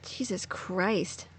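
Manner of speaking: slow, drawn-out Jesus Christ; stunned disbelief. Real, not acted. Streamer reacting to the villains' plan, slow stunned disbelief. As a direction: let it sink in, disbelieving.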